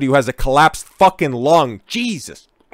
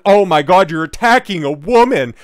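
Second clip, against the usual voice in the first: mock outrage; 4 semitones higher, 4 dB louder than usual. Mocking critics' outcry.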